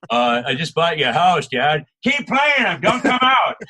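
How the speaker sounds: loud, high, cocky reply to dad; mock triumphant gamer son; smug kid comeback. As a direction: rub it in that you bought him a house. Kid answering his dad.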